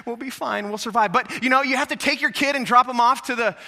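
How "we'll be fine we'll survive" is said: imitated husband's gentle reassurance; lightly acted, quieter comforting voice; reassuring husband. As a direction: softly soothe a panicking partner. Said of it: "and the husband's going".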